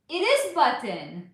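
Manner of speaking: Button with a crisp T, slow; proper Button. Shown as a demonstration. Clearly saying Button for her chat. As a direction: say Button with a clean sharp T. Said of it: "I love how you say button".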